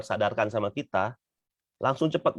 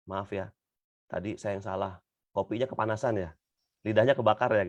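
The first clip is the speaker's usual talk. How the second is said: sincere apology. Retold or imitated. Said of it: "Tapi beda kalau". (istri meminta maaf pada suami dengan lembut dan tulus)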